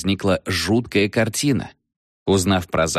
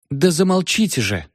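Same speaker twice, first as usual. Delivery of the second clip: high exasperated cry; cried out; 7 semitones higher than usual. A narrator's reading. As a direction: cut him off sharply and higher. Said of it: "вскрикнула Ева".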